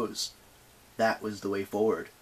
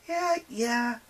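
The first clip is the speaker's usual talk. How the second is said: chattering teeth; 13 semitones higher than usual. Acted. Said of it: "chattering teeth".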